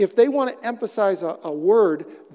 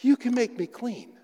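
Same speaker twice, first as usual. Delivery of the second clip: pleading leper; 8 semitones higher than usual. Retold or imitated. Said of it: "he comes up and he says".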